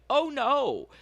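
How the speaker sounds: high-pitched retold alarm; mock dismay. Haley cornered by the crazy woman, high mock dismay. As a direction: imitate a friend's dread.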